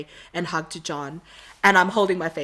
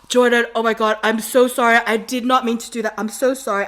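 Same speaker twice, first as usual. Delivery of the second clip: retold flustered apology, a little raised; embarrassed apology; 3 semitones higher, 5 dB louder than usual. Fan apologizing to Jordan for the accidental touch, mildly flustered. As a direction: replay a mortified, insistent apology. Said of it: "so embarrassed and I'm saying".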